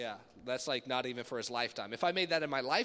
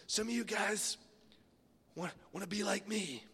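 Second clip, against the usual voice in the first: high, put-on pastor voice; children's pastor impression; 6 semitones higher than usual. Children's pastor addressing the kids who admire him, imitating. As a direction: mimic the pastor in a raised voice. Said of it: "he talked like this".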